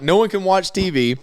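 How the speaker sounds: usual speaking voice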